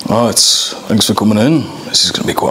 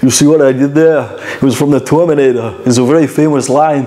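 higher, louder, gleeful; pleased with himself; 4 semitones higher, 3 dB louder than usual. Real, not acted. Auditioner bragging about his own joke, gleefully. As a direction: show off the joke you just landed. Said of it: "I'm hilarious".

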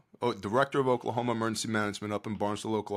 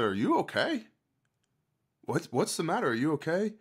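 higher-pitched retold concern; concerned asking; 6 semitones higher than usual. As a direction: check on someone who is weeping, voice lifted. Retold concern for weeping woman.

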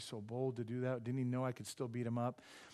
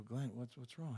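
hushed concern; 6 dB quieter than usual. Retold or imitated. Concern at friend's tears.

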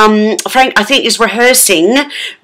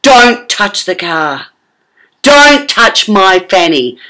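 firm warning; slower than usual. Retold or imitated. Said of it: "I said".

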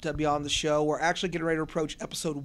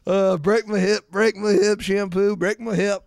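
mock fanboy plea; 4 semitones higher, 10 dB louder than usual.

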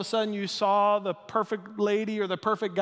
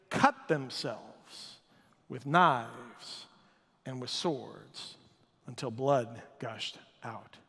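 slow, soft and low; grave; 7 semitones lower, 5 dB quieter, much slower than usual. A narrator's reading. Preacher telling of the bloody ritual, slow and hushed. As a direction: drop it down, slow and grim. Grim climax of the story.

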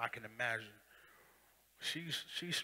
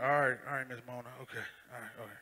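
placating; faster than usual. Retold or imitated. Placating the church lady.

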